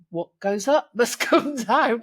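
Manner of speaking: slow imitation of dad's Burmese accent, laughing midway. Daughter quotes her dad's family saying, lightly imitated Burmese accent. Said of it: "he says it in this lovely Burmese accent".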